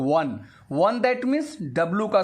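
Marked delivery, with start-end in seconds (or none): 0.1-1.0 "वन" said as wun, opening on a clear W; say one with W sound. Shown as a demonstration. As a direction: demonstrate "वन" with the W sound at the start. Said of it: "वन बोलते हैं हम लोग".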